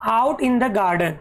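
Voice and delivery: slow, deliberate reading of the title; slow teacher read-aloud. Shown as a demonstration. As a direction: read each word out slowly for the class.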